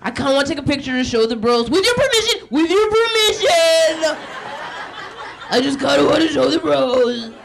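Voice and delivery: high, giddy mock pleading; hammed-up excitement, stretching the repeated request; excitable white guy. White guy asking to take a picture, mock excited. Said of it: "They're very excitable".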